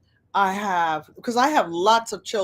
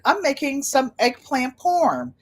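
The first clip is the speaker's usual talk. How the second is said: put-on Boston accent; 5 semitones higher than usual. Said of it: "with that Boston accent".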